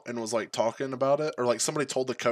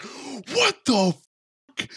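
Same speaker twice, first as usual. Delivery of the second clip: loud, high imitation of stunned teammates; mock shocked outburst; 13 semitones higher, 4 dB louder, much slower than usual. Storyteller imitating stunned locker room, mock shocked outburst. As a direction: blurt it out, imitating their disbelief. Everybody's like.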